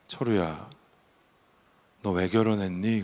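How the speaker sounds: lightly voiced God, softly questioning; a quiet, understated divine rebuke; gentle voice of God. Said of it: "근데 하나님이 푹 얘기하시는 거예요".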